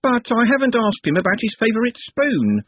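whiny high wail. A narrator's reading. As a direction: wail it like a girl. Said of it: "she wailed".

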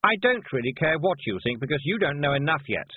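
sharp, superior put-down. A narrator's reading. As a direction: cut her off sharply. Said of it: "said Anagramma sharply".

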